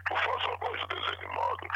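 very high breathy squeak; tiny whispery cartoon squeak; squeaky cartoon voice. Shown as a demonstration. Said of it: "voz de desenho animado".

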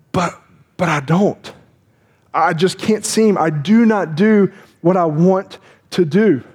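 slow, drawn-out confession of struggle; halting inner struggle. Acted. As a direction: stretch the words out, as if wrestling with yourself. Acted inner struggle of a believer.

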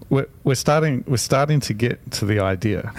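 wired, fast and eager; buzzing on coffee; too much caffeine. Real, not acted. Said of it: "the coffee is kicking in".

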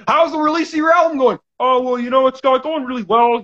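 mock interview voice. Host re-enacts dutiful album questions, mock interview voice. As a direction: play an over-polite album interview.

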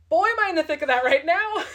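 high, loud, laughing through it. Real, not acted. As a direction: laugh at your own mess. Laughing at her own life struggle.

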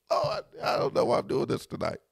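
breathy laughing under his breath; laughing aside. Real, not acted. Preacher marvelling at his own generosity, laughing aside. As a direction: laugh it out half to himself. Laughing at himself, giving advice free.

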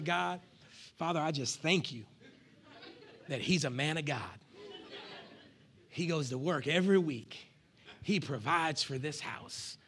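hushed, slowed-down prayer; soft grateful prayer. Pretend. Wife hiding in the bathroom, praying softly to God. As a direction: pray it low and soft, like a whisper to God.

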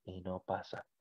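soft, slow tender voice imitated; sublime. A divine voice speaks to him in church, sublime. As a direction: quote it softly, letting it fade. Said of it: "sentir sublime, me dijo".

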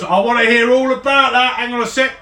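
high, keen soldier voice; itching to hear the tale; eager soldier. Acted. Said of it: "And Carl goes".

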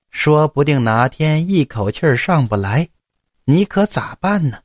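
lightly voiced old mother, drawn-out pleading words; slow, coaxing mother with a rising lilt; old mother urging. Old mother talks her son into leaving to peddle, gently urging.

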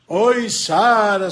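slow, drawn-out wailing call for Sara; crying lament. Acted. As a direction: moan her name like a heartbroken madman. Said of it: "se lamentando o tempo inteiro". (lamento choroso e arrastado)

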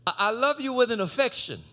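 timid confession; lightly voiced ashamed Peter; sheepish Peter. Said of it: "he was kinda sheepish".

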